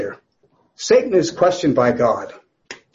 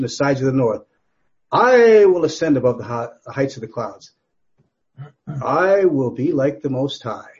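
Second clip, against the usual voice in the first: defiant boast; 3 dB louder than usual. Acted. Satan's boast read from Isaiah fourteen.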